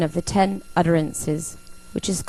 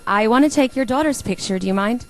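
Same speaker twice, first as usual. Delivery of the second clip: eager; 5 semitones higher, 3 dB louder than usual. Retold or imitated. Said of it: "And he said".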